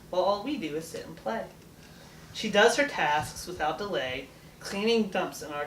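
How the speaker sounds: steady, measured villanelle recital; poem reading. Acted. Girl reading her birthday villanelle for Mom, steady recital. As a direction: read it as a gentle tribute.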